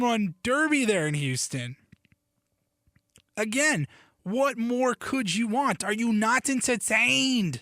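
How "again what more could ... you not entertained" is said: slow, raised Maximus-style challenge; mild movie-hero accent attempt; Gladiator impression. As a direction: channel the arena general, drawn out. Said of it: "that's not really the accent".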